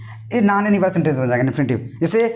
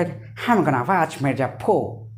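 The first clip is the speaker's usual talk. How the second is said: slow, lower mock British accent; 4 semitones lower, 4 dB quieter, much slower than usual. Teacher showing how the British say it, hammed-up British accent. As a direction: exaggerate a British accent, stretching the words. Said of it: "British वाले बोला".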